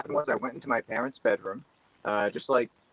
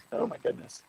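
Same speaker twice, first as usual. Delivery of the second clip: bad connection; 9 semitones higher, 5 dB quieter than usual. Real, not acted. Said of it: "we can't hear you too well".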